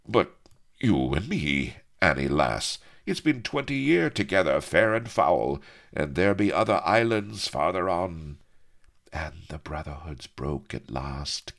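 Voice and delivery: lightly voiced old sea rover; loud, earnest appeal easing off; rough pirate sweetheart. Acts the pirate Calico Jack.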